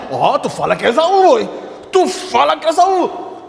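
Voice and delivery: high, loud urgent coaching voice; hiss-free but pushy, drilling the lie into her son; scheming mother coaching. Acted. Rebeca coaches Jacob to claim he is Esaú, loud and high. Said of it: "ele já tava treinado pela mãe".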